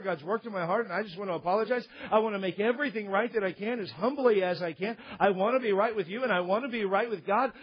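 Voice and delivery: gentle, humble, sincere apology; meek humble apology. Shown as a demonstration. Preacher models a humble apology to an offended friend, meek and sincere. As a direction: apologise meekly from the heart. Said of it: "in a meek and quiet and humble spirit and saying".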